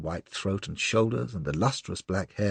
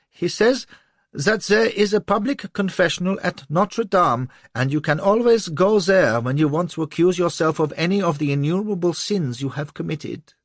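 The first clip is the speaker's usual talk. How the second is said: high, loud nervous blurt; terrified; 11 semitones higher, 6 dB louder than usual. A narrator's reading. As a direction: rush out the insult in fear. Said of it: "His voice went up to a squeal".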